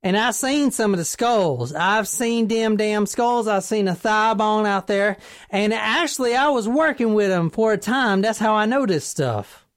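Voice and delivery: put-on country accent, earnest eyewitness testimony. Tipster telling police what he saw, put-on country accent.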